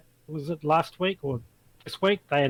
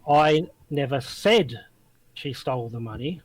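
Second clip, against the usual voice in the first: said stretched and weighted; stress on SAID. Shown as a demonstration. Showing a friend how stress shifts meaning, he stresses said. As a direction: lean on the word said, then let the rest drop. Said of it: "put the emphasis on each of those words".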